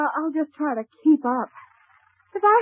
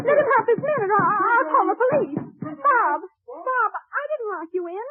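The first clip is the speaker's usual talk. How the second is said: crying as she calls her husband, higher; tearful pleading; 7 semitones higher than usual. Acted. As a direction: voice breaking into sobs, slowing down. Wife frightened, husband locked in.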